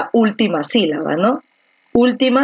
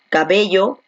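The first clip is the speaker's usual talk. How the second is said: "cabello" with the stress on BE; stress on middle syllable. Shown as a demonstration. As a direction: lean on the BE of "cabello". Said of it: "Donde la fuerza de voz está aquí en B".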